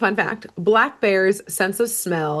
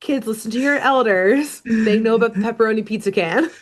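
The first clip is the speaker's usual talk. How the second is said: put-on old storyteller voice; 3 semitones higher than usual. Playing an elder telling tales.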